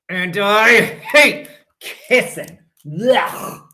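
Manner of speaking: gag at the kissing; disgusted child. Acted.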